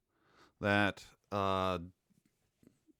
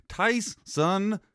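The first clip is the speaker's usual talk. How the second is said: mock announcer call; 8 semitones higher than usual. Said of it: "maybe they're saying".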